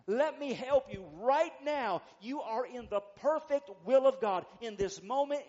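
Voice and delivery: loud, insistent preacher's push; forceful preaching. Real, not acted. Preacher reassuring those who feel they failed God, forceful preaching. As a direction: drive it home to the congregation.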